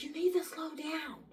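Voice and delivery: woman calling after the man ahead; high pleading voice. Retold or imitated. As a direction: call after him, pleading. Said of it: "And she's like".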